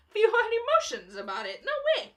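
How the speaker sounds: high, laughing mock denial; joking he never watched the leaked trailer, laughing. Real, not acted. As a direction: crack up while pretending innocence. Ironic denial of watching leak.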